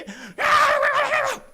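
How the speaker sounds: very high, loud, drawn-out mock scream; imitated children's yelling. Preacher acting out his children upset about the cat, high imitated scream. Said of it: "막 소리소리 치는 거예요".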